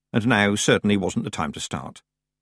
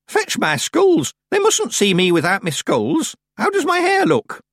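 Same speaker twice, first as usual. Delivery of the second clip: put-on high, loud, panicked old woman; frantic old witch; 13 semitones higher, 4 dB louder than usual. A narrator's reading. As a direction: shriek orders in a panic. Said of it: "frantically winding up her clock".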